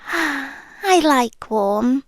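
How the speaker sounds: a sigh, then the words very slow; sighing tenderly. Acted. Voice in his head savouring his happiness, slow sigh. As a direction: melt into it, savouring the thought.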